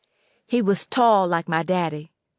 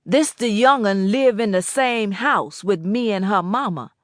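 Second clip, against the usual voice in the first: put-on old Boatwright voice; 5 dB louder than usual.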